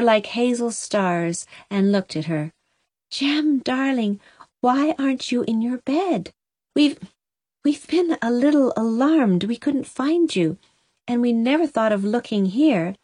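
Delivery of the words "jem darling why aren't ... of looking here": mother's voice. Acted. Anne finds her lost son.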